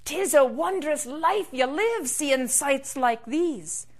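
lightly acted wonder; awestruck leprechaun. Leprechaun flying over the sparkling sea, awed.

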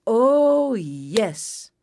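long swoop down to "yes"; pleased hawk. A narrator's reading. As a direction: relish it, falling in pitch. Hawk's cry entering garden.

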